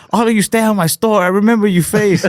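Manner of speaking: high, fast mock-angry rant in an Asian accent; hammed-up outrage, cartoon Asian accent; pissed-off Asian comic. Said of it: "the dude just gets pissed".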